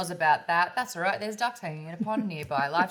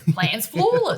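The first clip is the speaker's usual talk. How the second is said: Talos voice; 6 semitones higher, 8 dB louder than usual. Retold or imitated. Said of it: "Talos is like".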